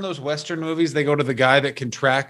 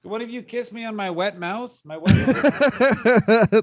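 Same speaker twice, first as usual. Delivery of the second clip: mock seductive; 8 semitones higher, slower than usual. Mock seductive joke to cohost.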